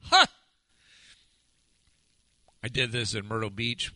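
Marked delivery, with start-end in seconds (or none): 0.0-0.3 a sharp, loud demon bark of Ha; short loud demonic shout; demon's shout. Acted. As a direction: blast the Ha out like a demon possessed. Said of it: "He cried out in the top of his voice".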